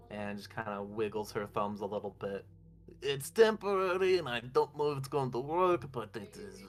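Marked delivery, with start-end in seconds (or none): 3.0-6.6 put-on lightly done Russian accent, rising higher; mild Russian accent, ending in a laugh. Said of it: "I don't know why I'm Russian now".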